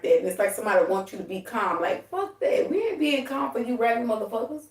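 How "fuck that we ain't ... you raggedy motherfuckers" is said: laughing. Real, not acted.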